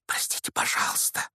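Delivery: hushed unvoiced apology; whisper. A narrator's reading. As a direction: whisper it so nobody hears. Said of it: "прошептал Гарри".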